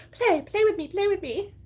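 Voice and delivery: high, loud pleading puppy; squeaky begging dog voice; eager puppy voice. Retold or imitated. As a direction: beg to play like an excited pup. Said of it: "She'd be like".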